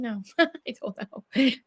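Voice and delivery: laughed slow "I don't know"; laughing. Real, not acted. Asked why she cares, laughing it off. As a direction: shrug it off through a laugh.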